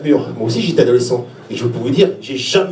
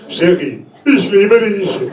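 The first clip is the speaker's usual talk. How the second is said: imitating a Swiss-German mother; mock Swiss-German mum addressing her husband; hammed-up Swiss-German accent; much slower than usual. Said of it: "suisse-allemande, pure couche".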